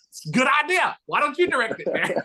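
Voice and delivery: high, squeaky put-on impression of the director; jokey high-voiced mimicry; mock high voice. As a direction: pitch it way up to mimic him. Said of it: "He goes".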